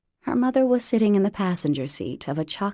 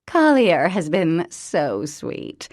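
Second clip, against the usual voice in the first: gushing mother; 5 semitones higher, 6 dB louder than usual. A narrator's reading. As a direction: lay the charm on thick. Mother gushes to Collier.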